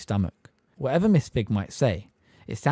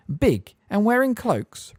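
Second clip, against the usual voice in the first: cool; 11 semitones higher, 3 dB louder, slower than usual. A narrator's reading. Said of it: "repeated Madam Bones coolly".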